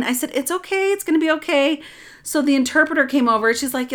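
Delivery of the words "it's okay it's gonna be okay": put-on high-pitched comforting of a crying child; retold reassurance.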